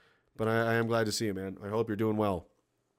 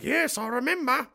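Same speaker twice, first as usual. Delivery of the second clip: weary father; 12 semitones higher than usual. Retold or imitated. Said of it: "You're like".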